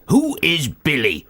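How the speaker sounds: put-on slow, puzzled old dad; lightly voiced confused father; imitating dad. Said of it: "he kept on saying it".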